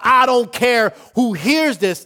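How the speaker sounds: slow, loud, high defiant shout; amplified praise. Acted. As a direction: proclaim it for everyone to hear. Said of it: "This was an amplified praise".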